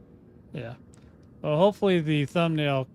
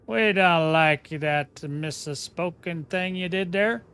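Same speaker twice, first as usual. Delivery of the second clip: slow, higher, louder mock-offended complaint; complaining French viewer; 3 semitones higher, 6 dB louder, slower than usual. A French viewer scolding the Commander, slow mock offense. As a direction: play a fussy viewer scolding him for a mispronounced name. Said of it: "any French people that come by and go".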